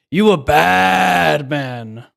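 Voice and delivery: put-on loud, slow, drawn-out African American accent. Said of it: "that was my black voice".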